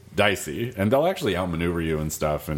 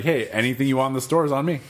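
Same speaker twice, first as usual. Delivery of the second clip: grateful stranger; 7 semitones higher, faster than usual. Retold or imitated. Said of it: "he's like".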